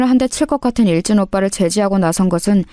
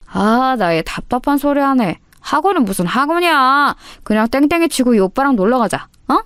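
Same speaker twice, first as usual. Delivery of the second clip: thuggish senior; 4 semitones higher than usual. Acted. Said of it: "접근 방식이 상당히 불량했다고".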